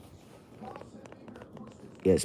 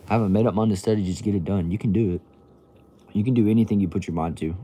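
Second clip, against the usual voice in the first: louder, rousing encouragement; pep talk; 2 semitones higher, 4 dB louder, faster than usual. Real, not acted. Streamer cheering on a viewer to study, loud and rousing. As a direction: push them on like a coach. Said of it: "Motivate me to study?".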